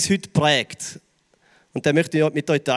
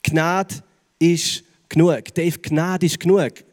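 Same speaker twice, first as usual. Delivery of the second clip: sanft zugesprochen; much slower than usual. Retold or imitated. Gott spricht ins Herz.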